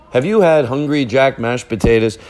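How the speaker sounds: hammed-up commercial pitch, rising in pitch; fake ad read. Podcaster faking a potato ad for listeners, hammed-up salesman delivery. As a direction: pitch it like a cheesy ad, ending on a sharp "Ha!". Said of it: "That's not a real ad".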